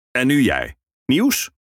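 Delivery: rising, eager ferryman prompt. Acted. Ferryman prompts the minstrel for news, eager. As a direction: press him for his news.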